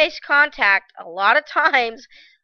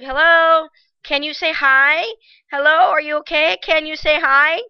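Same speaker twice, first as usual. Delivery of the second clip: calling hello; 4 semitones higher, 5 dB louder than usual. Retold or imitated. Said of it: "the other girl's like".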